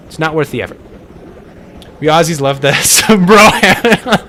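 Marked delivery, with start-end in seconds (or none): 2.0-4.3 louder, slow line breaking into laughter; laughing mock Aussie. Streamer posing as one of the Aussies, laughing through it. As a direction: crack up while playing the Aussie.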